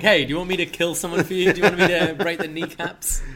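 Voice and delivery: hammed-up gangster pitching a hit; mock mobster. Mocking the baby faces offering violence, hammed-up mobster. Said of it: "but they're still like".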